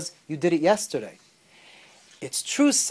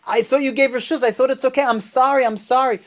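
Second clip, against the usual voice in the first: mild pleading, pitched higher without real sobs; retold tearful pleading; 4 semitones higher than usual. Mortified jester begging the Rebbe's pardon, retold tearful pleading. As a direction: plead for forgiveness, imitating distress lightly. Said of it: "he starts crying".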